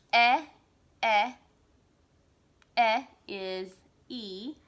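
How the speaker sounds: eh said loud and short, then slow; teacher isolating the short e sound; isolated vowel sound. Shown as a demonstration. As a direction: call out the eh sound on its own. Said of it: "isolating the vowel sound".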